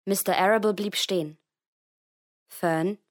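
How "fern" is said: gently. Acted. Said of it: "sagte er sanft".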